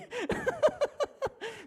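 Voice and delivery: real high-pitched laughing fit; high burst of laughter. Real, not acted. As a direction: break into a squealing laugh. Preacher cracks up at memory.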